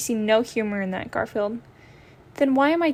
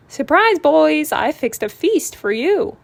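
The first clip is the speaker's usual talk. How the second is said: cheerful surprise; 4 semitones higher, 5 dB louder, slower than usual. Acted.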